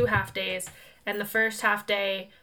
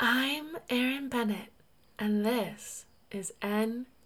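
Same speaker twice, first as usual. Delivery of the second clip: soft, sultry, sexy public radio announcer voice; 6 dB quieter than usual. Mimicking how she sounded as a radio host, do it imitating Erin Bennett as NPR host. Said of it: "did I mimic Aaron perfectly or not?".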